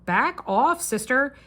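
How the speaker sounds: climbing from puzzled to a sharp mock telling-off; exasperated mom scolding. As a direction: tell her to back off, half-joking. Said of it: "I'm like".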